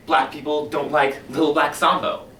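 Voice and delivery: a zealous fire chief, swinging from hushed to loud; commanding book-burning fire captain; fiery fire captain. Acted. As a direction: preach the burning of books like a fanatic. Performs Beatty's monologue opening.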